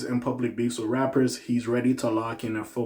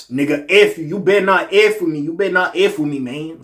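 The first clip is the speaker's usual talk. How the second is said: higher, louder put-on Southern rapper accent; a rapper's accent; 5 semitones higher, 7 dB louder than usual. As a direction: throw the warning out in a heated, imitated rapper accent. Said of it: "So I gotta do the little X and".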